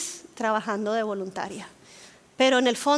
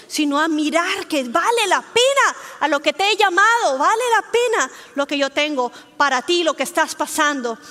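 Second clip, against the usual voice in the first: louder, rallying call; urgent exhortation; 3 semitones higher, 4 dB louder than usual. Acted. God urging the listener to drop the negativity, louder. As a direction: push them to let go of complaint.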